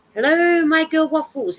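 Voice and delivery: high, loud sing-song hello; excited pet greeting. Real, not acted. Knitter greets her dog Waffles, high and delighted.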